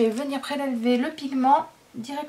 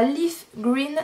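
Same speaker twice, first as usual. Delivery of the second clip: English colour name in a French accent; 3 semitones higher than usual. Real, not acted. Vlogger reading out a pencil shade to viewers, French-accented English. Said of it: "Pardonnez mon accent anglais qui est abominable".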